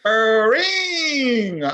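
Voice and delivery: sudden high loud cry of a ring; excited blurt. Acted. Interrupting the show talk, a loud high excited blurt.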